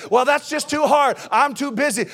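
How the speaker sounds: put-on a touch of a whiny teenager; mock complaining teen. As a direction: play the lazy excuse-maker. Mimicking excuse-making teen.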